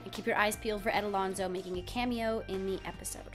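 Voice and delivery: hoarse laryngitis voice; croaky voice. Real, not acted. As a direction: read the news through a sore throat. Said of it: "so I have kind of a croaky voice".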